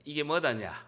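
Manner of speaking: a hint of Jeolla lilt; Jeolla dialect. Shown as a demonstration. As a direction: model a light Jeolla accent. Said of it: "전라도 사투리 따라하면 돼".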